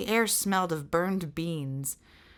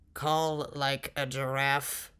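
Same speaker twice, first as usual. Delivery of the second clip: slow disbelief; 4 semitones lower, slower than usual. Acted. Giant incredulous.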